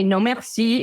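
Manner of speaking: best French accent, as a demo. Shown as a demonstration. Advising tourists to pretend they are French, French accent. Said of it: "in your best accent".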